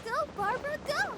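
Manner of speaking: excited cheer. Real, not acted. Cheering on a game character again.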